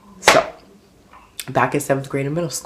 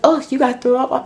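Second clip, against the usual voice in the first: very high mock counselor voice; high-pitched put-on disgust; imitated disgusted counselor; 12 semitones higher than usual. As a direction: mimic a grossed-out counselor up high. Voices counselor seeing the vomit.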